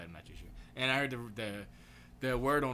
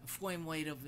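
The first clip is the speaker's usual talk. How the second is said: put-on British accent with lisp; 4 semitones higher, 3 dB quieter, slower than usual. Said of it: "he has a little bit of a lisp".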